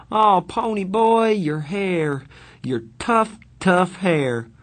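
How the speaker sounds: high, gushing cry of relief; overjoyed brother fussing over him; high, emotional Soda voice; tearful gushing. Acted. Soda greets his brother.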